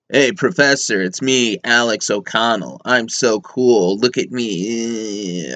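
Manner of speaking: lightly mocked cool American, slowing down; low, slowing drawl of someone too cool; a hint of a self-satisfied American dude; mock American guy. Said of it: "Now he's an American".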